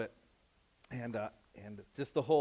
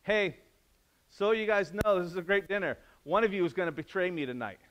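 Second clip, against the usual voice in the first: higher, louder, breezy Jesus; casual Jesus; 5 semitones higher, 6 dB louder than usual. Retold or imitated. Jesus casually tells the disciples at supper, breezy. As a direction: drop the news lightly. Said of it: "he says".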